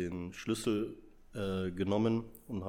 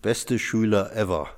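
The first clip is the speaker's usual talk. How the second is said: playful proud shout; 2 semitones higher, 9 dB louder, slower than usual. Real, not acted. Playful answer, loud and slow.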